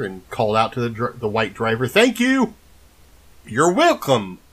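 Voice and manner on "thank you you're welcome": high put-on vampire voice with a silly accent; Adam Sandler's Dracula. The lost man calling out to the white driver in a silly Dracula voice. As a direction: ham up a goofy Count greeting. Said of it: "I'm talking like Adam Sandler's Dracula in Hotel Transylvania".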